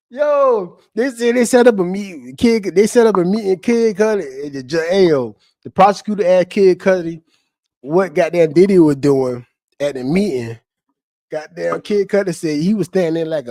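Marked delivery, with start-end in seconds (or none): 0.1-10.6 tag. Real, not acted. Retells testimony after cracking up.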